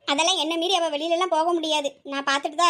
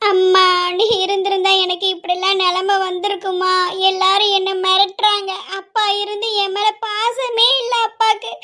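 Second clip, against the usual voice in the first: slow grieving plea, crying near the end; tearful lament. Acted. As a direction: pour out her pain to her lost mother. Girl alone laments to dead mother.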